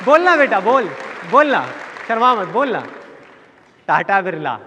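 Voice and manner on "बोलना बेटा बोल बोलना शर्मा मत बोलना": put-on high, loud urging of a shy child; coaxing relative. Relatives urging shy six-year-old to answer, loud and high. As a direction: egg the kid on, loud and high.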